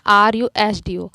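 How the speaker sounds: letters read slowly and loudly; slow spelled-out reading. Shown as a demonstration. Teacher reading letters out slowly to students. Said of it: "pronounce करके देखो".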